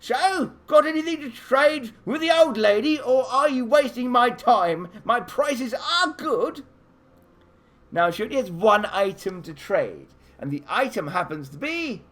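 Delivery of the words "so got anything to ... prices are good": high, loud, slow barking hag; cranky old shopkeeper hag snapping at visitors; stern old lady. Acted. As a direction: bark at the customers like a cranky old trader. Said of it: "in a very stern voice, she barks at you".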